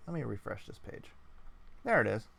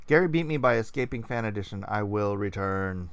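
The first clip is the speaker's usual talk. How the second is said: lightly voiced robot reading a message; hint of robotic monotone, slowing at the end; 3 semitones lower, 4 dB louder than usual. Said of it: "he's talking like a robot".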